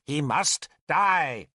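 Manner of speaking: slow, spaced-out patient statement. A narrator's reading. Merlin explains to Arthur, patiently. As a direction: say it slowly, with patience. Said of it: "Merlin said patiently".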